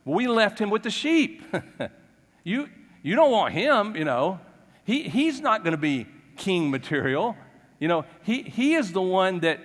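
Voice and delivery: mock scornful Jesse; dismissive father. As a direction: brush the boy aside with a chuckle. Jesse dismissing youngest son, laughing.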